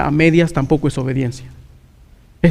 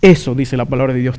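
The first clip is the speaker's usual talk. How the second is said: ordinary talk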